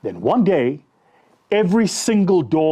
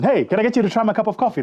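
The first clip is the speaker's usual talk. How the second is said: eager sales pitch; 6 semitones higher, faster than usual. Retold or imitated. Eager pitch to second person.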